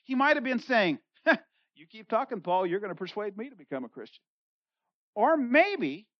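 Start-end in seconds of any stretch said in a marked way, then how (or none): 1.7-4.2 sarcastic. Retold or imitated. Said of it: "a statement of sarcasm".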